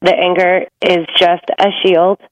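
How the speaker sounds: calm, grounded reassurance; steady, unafraid. Acted. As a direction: stand firm and soothe, unhurried pauses between phrases. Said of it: "stand like a giant redwood tree".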